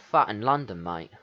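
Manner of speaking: hammed-up London accent. Shown as a demonstration. Player names the accent just used, broad London accent. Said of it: "What the fuck kind of accent am I doing?".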